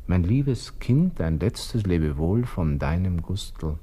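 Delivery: slow, weighty farewell; solemn farewell recital. Acted. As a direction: draw out each word like a last goodbye. Final farewell letter draft.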